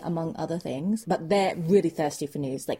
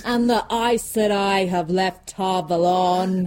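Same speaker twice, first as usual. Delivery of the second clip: dramatic revelation; 4 dB louder, slower than usual. Acted. Peddler's escalating revelations.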